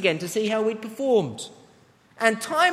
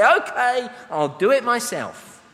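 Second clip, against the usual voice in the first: exasperated parent; 3 semitones higher, 4 dB louder, slower than usual. Retold or imitated.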